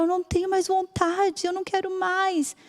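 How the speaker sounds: high, faint and hopeless; hopeless mother. Retold or imitated. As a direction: let the words give out in grief. (voz alta e fraca, sem esperança)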